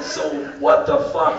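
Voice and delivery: high-pitched incredulous ask; baffled question. Retold or imitated. American visitor asks guests to explain, high and baffled. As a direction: demand an explanation without shouting.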